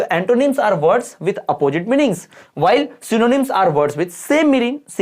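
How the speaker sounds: a teacher reading a definition aloud at dictation pace; slow dictation reading. Acted. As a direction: read it out very slowly, word by word.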